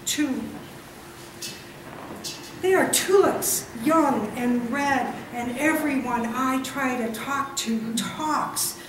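slow, deliberate poem recital; solemn spoken verse, drawn out; poetry reading. Acted. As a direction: set each short line apart with long pauses. Reads own poem aloud.

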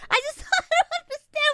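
stifled giggles. Real, not acted. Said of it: "I don't even know why I'm laughing".

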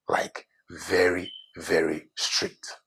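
slow, deliberate stress landing on "strict"; emphasis on STRICT. Acted. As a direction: draw out "very, very strict" slowly, weighting "strict". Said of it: "Emphasis on the word strict".

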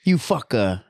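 lightly put-on Hawaiian local accent. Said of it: "sounds like you're trying to gain their accent".

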